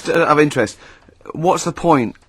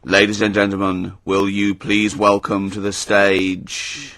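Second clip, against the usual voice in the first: arena announcer; 6 semitones lower, 4 dB quieter, slower than usual. Retold or imitated. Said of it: "we will do the test".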